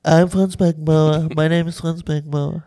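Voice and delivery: mild mock Beckenbauer, mostly own voice; Beckenbauer impression. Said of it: "ich kann richtig gut Franz Beckenbauer".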